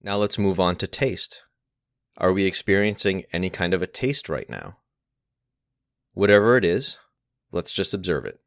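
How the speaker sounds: unhurried guided meditation with long pauses; guided mindfulness. Acted. Teacher leading listeners through each of the senses, guided mindfulness. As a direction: guide gently, phrase by phrase, leaving space to notice.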